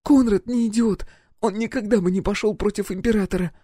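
put-on high young woman's defiant retort; high defiant girl. Roxy defends Konrad, high defiant girl.

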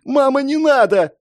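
put-on very high, wailing little boy; crying child. A narrator's reading. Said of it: "заплакал мальчик". (детский плач, мольба)

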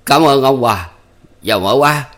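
curt dry voice. A narrator's reading. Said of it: "nói giọng ráo quảnh".

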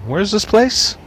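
as if turned away from the phone; faded voice. Acted. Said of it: "His voice faded as he asked someone".

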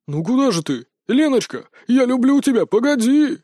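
builds from normal to a high, loud wail; rising lovesick howl; wailing plea. Acted. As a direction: howl after her lovesick. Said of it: "взвыл Апраксин".

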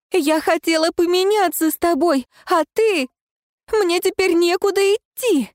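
anguished outcry; crying out. Acted. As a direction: demand your body back in despair. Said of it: "вскричала Алоэна".

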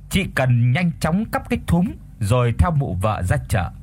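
ordinary delivery, nothing marked

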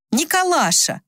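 bright cry of greeting at high pitch; joyful exclamation. A narrator's reading. Son greets his father with a joyful cry. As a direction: call his father's name with delight. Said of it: "воскликнул его сын".

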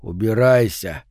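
low, slow, muffled from behind a door. Acted. Recluse answering from behind a door, muffled. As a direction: mutter it through a closed door. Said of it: "приглушённый голос сказал".

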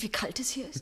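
whisper. Acted. Shivering nurse complains of cold.

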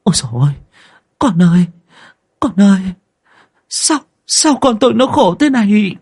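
a mother crying out over her dying daughter; wailing mother. A narrator's reading. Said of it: "khóc rống lên". (tiếng khóc than gào rống của người mẹ)

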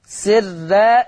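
سرا with a thin, light r; سرا in careful tajweed, the ra thinned. Shown as a demonstration. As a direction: say سرا keeping the r and its a unvelarized. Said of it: "عندنا ترقيق الراء".

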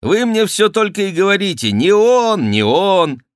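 high, loud exasperated protest; indignant protest. A narrator's reading. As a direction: protest hotly, pitched well up. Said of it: "запротестовал Сен-Люк". (возмущённый протест)

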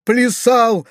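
high, acted tearful wail; sobbing wail. A narrator's reading. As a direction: wail it like a weeping boy. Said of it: "проревел Фалалей, всхлипывая". (плаксивый вопль)

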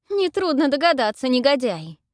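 high loud shout; girl shouting at the brute, high and loud. A narrator's reading. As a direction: yell it at the scoundrel. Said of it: "закричала я".

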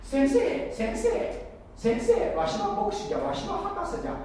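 put-on high-pitched fawning old man; creaky wise old man. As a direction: flatter the pastor in a high creaky voice. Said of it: "とか言ってね".

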